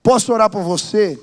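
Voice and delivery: loud friendly offer. Retold or imitated. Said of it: "chamava a pessoa... e falava".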